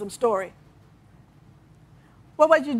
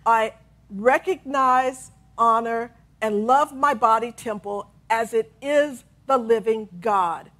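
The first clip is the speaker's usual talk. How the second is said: slow affirmation; slower than usual. Shown as a demonstration. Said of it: "here is one of Charles Fillmore's affirmations".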